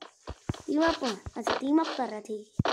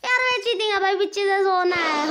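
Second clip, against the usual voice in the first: protesting; 4 semitones higher, 3 dB louder than usual. Real, not acted. Gamer protests being attacked from behind.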